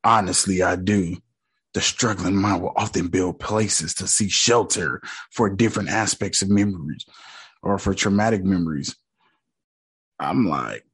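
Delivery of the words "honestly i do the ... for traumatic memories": lower, softer therapist; mild imitation of a soothing doctor; doctor's calm voice. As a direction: read it like a calm shrink. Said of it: "He said".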